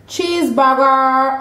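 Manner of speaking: slow, drawn-out relish; gleeful answer. Real, not acted. Gleefully answers burger question.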